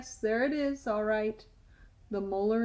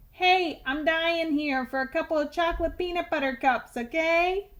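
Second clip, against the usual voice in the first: tooth shouting candy names in class; 5 semitones higher than usual. Acted. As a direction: blurt it across the classroom.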